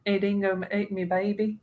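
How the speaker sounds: light mock Australian accent. Host repeating the famous line, in light Australian accent. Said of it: "You can't say that without doing the accent".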